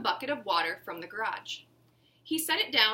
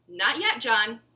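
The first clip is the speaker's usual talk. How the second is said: calling out; 9 dB louder, slower than usual. A narrator's reading. Host calling to eager child.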